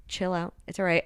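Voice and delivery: soft, understated soothing; calming reassurance. Retold or imitated. He calms her down on the dance floor, soft reassurance. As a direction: softly talk someone down. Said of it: "kinda calms her down".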